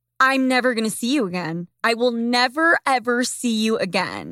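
plain

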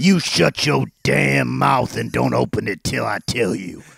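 hammy tough-con growl, very deep, low, rough. In an improvised scene, replying to the other character's pun, worst prisoner impression. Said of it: "worst prisoner impressions".

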